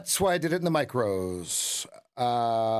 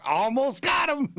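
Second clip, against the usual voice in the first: high, slow shouted meme line; 10 semitones higher, slower than usual. Retold or imitated. Quoting a favorite meme to the chat, high slow shout. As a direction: yell it like the hip-wader guy in the meme. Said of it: "and he's like".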